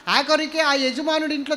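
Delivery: ordinary talk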